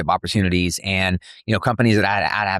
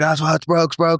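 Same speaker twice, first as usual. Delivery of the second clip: higher-pitched mock panic; imitated freak-out; 7 semitones higher than usual. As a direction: play a friend freaking out, without shouting. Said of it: "is, like, freaking out".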